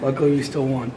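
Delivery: lost voice from a cold; hoarse, worn-out voice after shouting. Real, not acted. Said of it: "less than typical voice right now".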